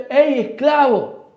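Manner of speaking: llamada fuerte y estirada; ey, esclavo, llamándolo por la calle; grito. Pretend. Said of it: "le grito". (grito lento de llamada)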